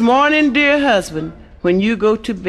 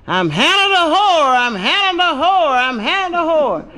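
high squawking parrot holler; shrill-pitched parrot squawk; 8 semitones higher than usual. Acted. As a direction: screech it like a parrot. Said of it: "the carrot started hollering".

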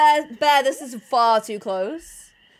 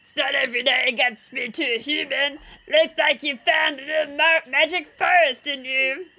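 hilarious bear. Pretend. Bear greeting a human in the magic forest, comical bear voice. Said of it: "That's how bears sound".

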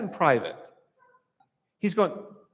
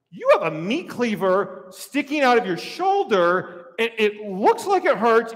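tactful disbelief; 3 semitones higher than usual. Acted. Acted patient pointing out doctor's injury.

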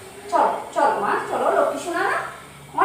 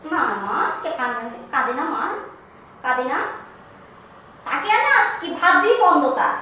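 soothing comfort; 5 semitones lower than usual. Acted. Comforting crying daughter-in-law.

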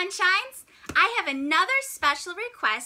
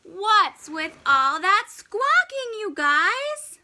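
louder, slowed grumpy penguin; loud complaint; 4 dB louder, slower than usual. Acted. Grumpy penguin yelling at noisy neighbours, loud and slow. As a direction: grumble it out loud.

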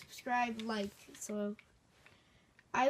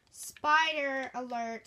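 louder, slow warning call; loud alert; 6 dB louder, slower than usual. Acted. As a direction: sound the alarm. Announcing spider loudly.

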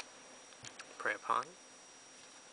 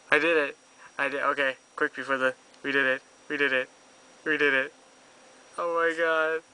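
shrieking jackpot winner; 2 semitones higher, 10 dB louder than usual. Real, not acted. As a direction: scream with joy at winning. Pulled Liliana, jackpot.

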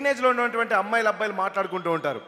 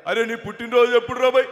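Hanumantha Rao impression; 2 semitones higher, 5 dB louder than usual. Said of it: "Hanumantharao గారి bit".

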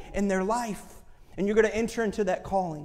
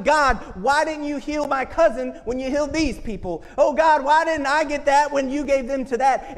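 raised, pleading complaint to God; bitter complaint to God; 5 semitones higher, 3 dB louder than usual. Retold or imitated. Speaker retelling her bitter prayer, louder and aggrieved. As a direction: let the bitterness push it up and out. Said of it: "in my bitterness".

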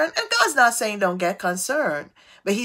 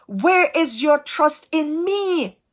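slow gentle question; 5 semitones higher, slower than usual. Acted. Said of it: "God is saying".

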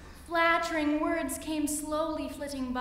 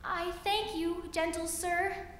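buzzy housefly; 5 semitones higher than usual. Acted. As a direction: squeak it high and urgent. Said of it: "she said".

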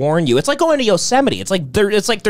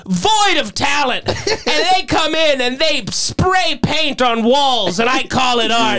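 mock arrogant rant; 5 semitones higher than usual. Ranting as the arrogant man.

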